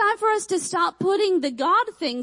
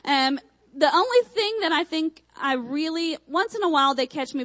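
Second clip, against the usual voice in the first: ordinary talk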